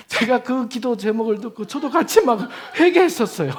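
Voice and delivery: can't stop laughing as he tells it; amused laughing retelling; laughing while talking. Real, not acted. Laughs recalling his own repentance.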